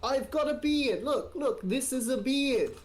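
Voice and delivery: insistent. Real, not acted. Insists he has a beard.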